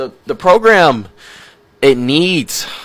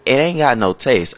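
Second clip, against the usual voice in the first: put-on mild Southern accent. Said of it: "let me stop talking Southern".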